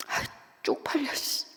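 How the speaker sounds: hushed embarrassed mutter. Retold or imitated. Father mutters after crying.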